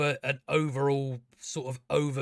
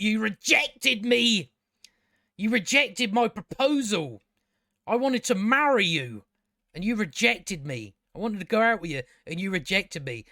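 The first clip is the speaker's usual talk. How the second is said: higher and louder, a hammed-up furious rant; mad rejected suitor; 4 semitones higher, 3 dB louder than usual. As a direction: rage at her like a jilted lover. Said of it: "he goes all mad face".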